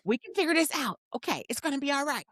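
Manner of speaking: talking someone down. Retold or imitated. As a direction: soothe a worked-up friend. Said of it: "having to talk you down".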